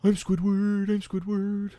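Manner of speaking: Squidward impersonating himself. Retold or imitated. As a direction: Squidward hamming up his own name. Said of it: "impersonation of Squidward doing an impersonation of Squidward".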